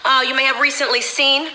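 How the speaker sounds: lightly mocking a put-on Southern accent, rising on Lordy; mock AOC Southern accent. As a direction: parody AOC pandering to Black voters, hamming it up a little. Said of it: "A O C now talks like us".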